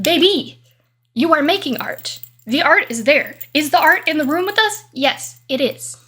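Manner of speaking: emphatic pep talk. Retold or imitated. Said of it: "I speak emphatically, gregariously, a little bit aggressively even".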